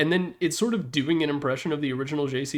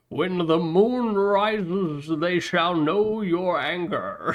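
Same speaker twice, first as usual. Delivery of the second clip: put-on slow, calm, soothing old-man announcer voice; 3 semitones higher than usual. Speaker quoting a game announcer pack's kill-streak line, in a soothing old-man voice. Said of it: "another old man with a soothing voice".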